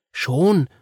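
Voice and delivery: put-on high child voice; Marie explaining. A narrator's reading. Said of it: "sagte Marie".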